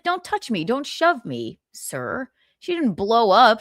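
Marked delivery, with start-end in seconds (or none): 0.0-2.3 higher-pitched mock protest, dropping on the last word; indignant retelling. Retelling the actress warning security, indignant. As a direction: imitate her firm objection.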